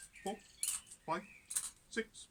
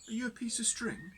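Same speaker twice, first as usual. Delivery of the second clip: much higher, doubtful barman; suspicious barman; 9 semitones higher than usual. Acted. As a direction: peer at him, unsure. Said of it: "and said".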